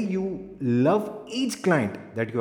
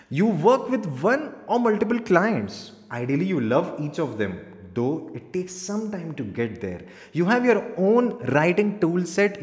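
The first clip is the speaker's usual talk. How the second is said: lively, raised-pitch presenter read; energetic; 3 semitones higher than usual. Shown as a demonstration. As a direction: sell it with enthusiasm. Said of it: "energetically बोल सकते हैं।".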